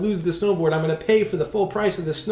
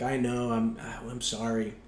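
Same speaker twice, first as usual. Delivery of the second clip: sheepish apology; 4 semitones lower, 9 dB quieter than usual. Retold or imitated. Scolded husband apologizes to patrol.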